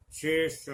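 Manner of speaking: शेष with a retroflex ष at the end; शेष: palatal श then retroflex ष. Shown as a demonstration. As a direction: curl the tongue back for the ष in शेष. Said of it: "मूर्धा में जाकर इस श".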